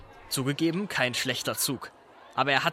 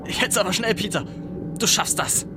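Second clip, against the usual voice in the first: higher, rushed self-urging; jolted awake and hurrying; hurried panic; 6 semitones higher than usual. Acted. Realizes late, hurries himself.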